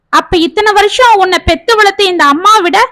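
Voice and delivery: put-on mother rebukes son for choosing the girl, angrily; angry mother. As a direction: scold the son with rising resentment. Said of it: "என்றாள் விசாலம் கோபத்தோடு".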